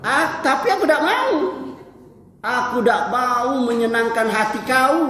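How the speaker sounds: storyteller's defiant quote; acted defiant refusal. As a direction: play a prisoner refusing to please the king. Prisoner defiantly refuses the king.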